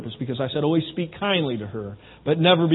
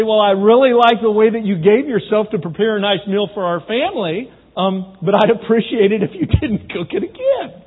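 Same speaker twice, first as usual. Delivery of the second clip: tactful complaint, raised pitch and volume; nice way; 5 semitones higher, 7 dB louder than usual. Acted. Husband gently critiques wife's cooking, mock-tactful. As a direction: put it nicely, with a laugh slipping in. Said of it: "you can say it in a nice way".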